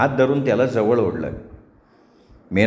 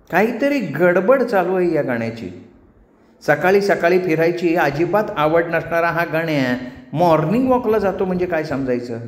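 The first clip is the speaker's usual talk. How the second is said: higher-pitched wife musing to herself; suspicious wife; 4 semitones higher than usual. Acted. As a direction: puzzle it out with mounting suspicion. Voices Gauri's suspicious thoughts. (स्वतःशीच बोलणारी संशयी बायको)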